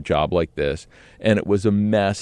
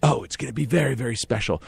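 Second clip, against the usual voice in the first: Bridget; 3 semitones higher, faster than usual. Retold or imitated. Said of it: "Bridget starts explaining".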